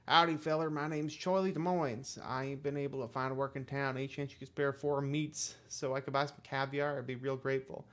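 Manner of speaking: a hint of a friendly down-and-out wanderer; folksy hobo. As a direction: play a polite hobo asking a favour, lightly.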